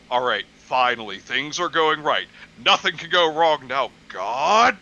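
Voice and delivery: mock movie-villain tantrum, exaggerated snapping at the end; building to a rage. Acting out villain's rage scene.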